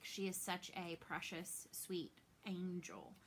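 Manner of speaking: tender whisper. Real, not acted. Mom describing her precious daughter, tender whisper. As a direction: breathe it out lovingly.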